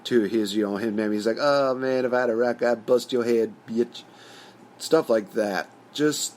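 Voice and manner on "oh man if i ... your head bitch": lightly put-on stereotyped African-American accent; a hint of caricatured African-American speech; mock stereotypical African-American voice. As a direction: loosely mimic a stereotyped African-American movie character. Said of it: "stereotypical African-American guy just saying".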